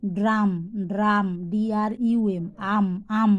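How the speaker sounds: ড্রাম with "aa", echoed as আম. Shown as a demonstration. Teacher showing U pronounced "aa" in ড্রাম. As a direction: say ড্রাম, spell it, then isolate আম. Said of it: "আ যখন হচ্ছে ইউর উচ্চারণ".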